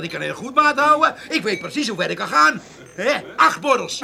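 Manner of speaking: tipsy laughing boast; boozy giggling bluster. Acted. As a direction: chuckle through the brag.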